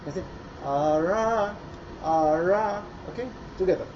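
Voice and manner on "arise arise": "Ara" with the r rolled clearly; "Ara", crisp r. Shown as a demonstration. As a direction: sound the r in "Ara". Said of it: "دخلوا سمعوا في الآر بتاعت arise".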